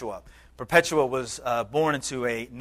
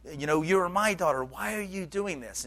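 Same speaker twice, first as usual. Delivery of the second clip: tearful begging; 5 semitones higher than usual. Retold or imitated. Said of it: "in tears, he's begging his daughter".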